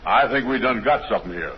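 slow character dialect opening; drawling start in a put-on dialect. Shown as a demonstration. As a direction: answer in the comic dialect voice. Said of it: "you hold that voice".

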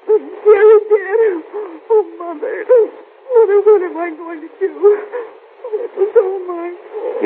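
slow broken sobbing; sobbing despair. Acted. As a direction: drag each word through tears. Daughter sobbing over dead fiancé.

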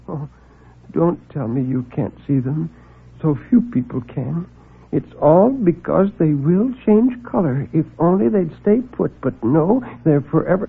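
a meek man afraid to speak up; timid little man. Acted. Meek visitor nervously announces a murder.

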